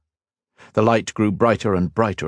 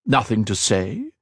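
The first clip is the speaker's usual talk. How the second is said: mocking; 3 semitones higher than usual. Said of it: "Shinzan mocked".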